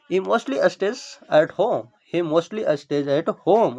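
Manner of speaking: slowly, word by word for learners; slow dictation. Shown as a demonstration. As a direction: lay each word out slowly. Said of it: "stage मतलब यहाँ पे क्या हो जाएगा". (धीरे-धीरे, हर शब्द अलग)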